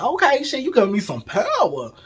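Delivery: pumped-up laughing cheer; excited and laughing. Retold or imitated. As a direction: hype yourself up, laughing. Empowered, throwing it back.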